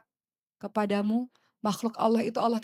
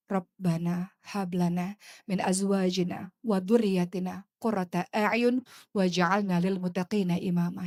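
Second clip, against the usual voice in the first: slow, devout recitation of the verse; slow Arabic prayer recitation; Quranic recitation; 3 semitones lower, slower than usual. Real, not acted. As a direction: recite it slowly and reverently.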